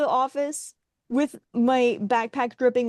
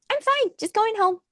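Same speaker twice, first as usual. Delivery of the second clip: brushing him off, pitched way up; bright falsetto I'm fine, imitating herself; fake-cheerful high voice; 12 semitones higher than usual. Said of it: "I was like".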